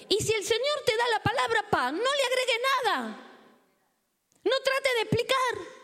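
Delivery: high-pitched pulpit exhortation; emphatic preaching. Real, not acted. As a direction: press the command on the congregation. Exhorts congregation. (exhortación enérgica desde el púlpito)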